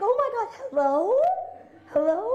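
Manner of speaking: breathless excitement. Retold or imitated. Answering Butler's call, thrilled.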